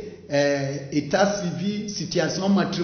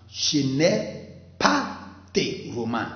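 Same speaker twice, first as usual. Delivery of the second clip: slow model sentence; 2 semitones lower than usual. Shown as a demonstration. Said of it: "Il faut dire".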